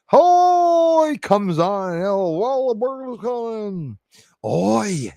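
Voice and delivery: high, drawn-out mock drunken hollering; imitated drunk. Mocking the man who comes on drunk, slurred mock holler. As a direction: imitate a drunk rolling in, long high vowels. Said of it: "he's drunk as a fart".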